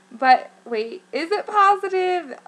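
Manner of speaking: high, loud reenacted doubt; mock-panicked double take, pitch rising; freaking out. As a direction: question it in sudden panicky disbelief. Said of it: "I was freaking out".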